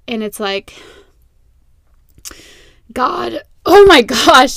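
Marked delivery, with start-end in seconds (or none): 2.9-4.6 voice crack. Real, not acted. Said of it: "did you hear my voice crack?".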